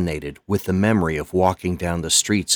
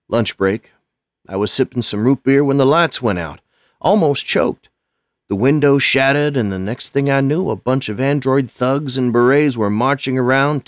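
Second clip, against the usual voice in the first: put-on higher, louder, fast, shaken old man; 5 semitones higher, 4 dB louder than usual. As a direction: voice breaking as he relives it. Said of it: "Lonnie's voice broke when he spoke".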